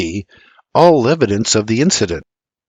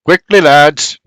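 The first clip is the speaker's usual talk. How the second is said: urgent urging; 3 semitones higher, 6 dB louder, slower than usual. A narrator's reading. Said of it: "Doc says".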